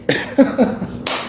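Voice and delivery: short, soft unvoiced chuckle; breathy chuckle after the punchline; breathy laugh. Real, not acted. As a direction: laugh quietly at your own joke. Laughs at own joke.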